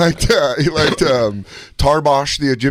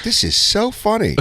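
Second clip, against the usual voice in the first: higher, slow deadpan dad; imitating dad; 8 semitones higher than usual. Dad reacting to Adam Sandler album. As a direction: say it flat and unimpressed. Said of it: "he'd be like".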